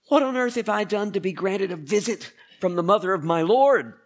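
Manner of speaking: high, loud amazed exclamation; exclaiming in awe. Acted. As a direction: cry it out in wonder at the honor. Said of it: "Elizabeth exclaims".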